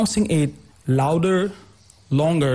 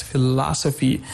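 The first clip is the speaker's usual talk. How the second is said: philosophy with the stress on the second syllable, LO; 2 semitones lower than usual. Shown as a demonstration. Teacher repeating the example, philosophy stressed on LO. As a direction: lean on LO in philosophy. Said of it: "On the second syllable".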